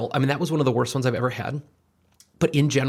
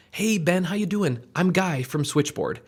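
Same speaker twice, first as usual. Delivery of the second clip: friendly greeting demo; 5 semitones higher, slower than usual. Shown as a demonstration. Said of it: "I will often say".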